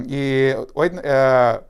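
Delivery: usual speaking voice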